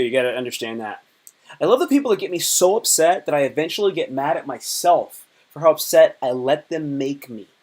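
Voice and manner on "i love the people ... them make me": dripping with mock enthusiasm; sarcastic. Shown as a demonstration. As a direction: say it like you obviously mean the opposite. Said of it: "it's sarcastic too".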